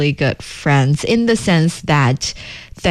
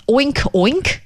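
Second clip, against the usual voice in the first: pig oink; 6 semitones higher than usual. Shown as a demonstration. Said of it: "Pigs in English says".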